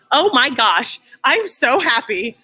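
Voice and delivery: bubbling over with happy laughter; laughing with joy. Real, not acted. Overjoyed greeting on arrival.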